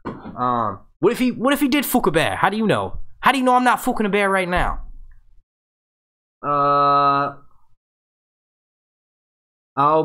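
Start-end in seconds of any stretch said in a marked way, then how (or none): 1.0-4.8 mock indignant. Mock-indignant rant as Tormund.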